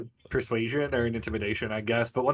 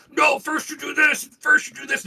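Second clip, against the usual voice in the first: much higher, louder playful voice; a mocking puppet-show voice; mock puppeteer; 13 semitones higher, 5 dB louder than usual. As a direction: boss the dolls around.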